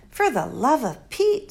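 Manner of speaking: lightly voiced exasperated girl; a hint of girlish impatience; Flora. Girl exasperated at the old doctor, mild.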